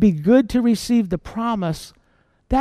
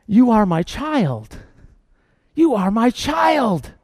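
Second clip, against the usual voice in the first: tender voice of God; slower than usual. Acted. God answers the struggling believer.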